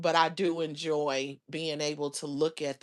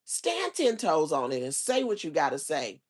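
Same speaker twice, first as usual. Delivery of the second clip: mock exasperation; 5 dB louder than usual. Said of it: "I be like".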